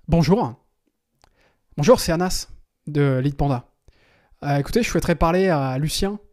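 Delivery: self-assured, professional caller; confident, businesslike greeting; confident phone voice. Shown as a demonstration. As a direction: sound like someone important the secretary must put through. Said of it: "Il faut utiliser un ton confiant".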